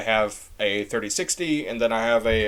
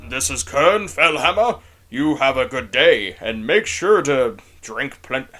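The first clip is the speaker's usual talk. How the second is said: a lightly voiced noble paladin; 4 dB louder than usual. Shown as a demonstration. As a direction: speak like a steady holy knight. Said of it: "that's like a more paladin voice".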